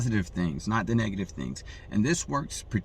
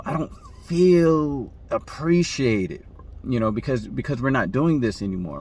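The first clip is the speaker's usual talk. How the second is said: hurt and vulnerable. Retold or imitated. Woman telling her man she feels unappreciated, mildly hurt. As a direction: plead gently to pull at his heartstrings. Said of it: "tug on the heartstrings of the man".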